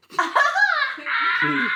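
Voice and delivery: put-on loud high Indian accent hello. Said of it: "He has an Indian accent".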